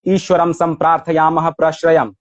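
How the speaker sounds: even Sanskrit verse line, falling at the end; metrical recitation. Shown as a demonstration. Scholar shows the translation keeps Rumi's metre, measured recitation. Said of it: "وزن شعر مولانا و این ترجمه".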